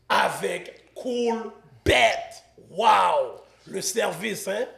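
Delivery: measured announcer delivery with pauses between phrases; sponsor ad read. Acted. Host reading a betting site promo to viewers, ad-read style. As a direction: sell the sponsor, punching each key phrase.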